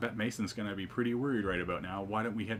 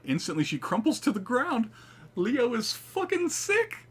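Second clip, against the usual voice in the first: much louder, higher, slow excited shout; hyped; 7 dB louder than usual. Real, not acted. Player hyped as Leo saves Saburo, shouting. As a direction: yell it out hyped.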